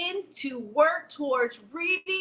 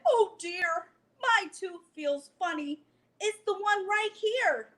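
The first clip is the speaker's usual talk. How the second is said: worried bear; 3 semitones higher than usual. Acted. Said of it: "Bear frowned and he worried".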